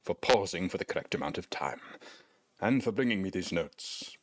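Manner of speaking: a hint of a sly old wizard; wizard NPC voice. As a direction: read the wizard's lines, slipping into a sinister aside. Reads wizard NPC dialogue aloud.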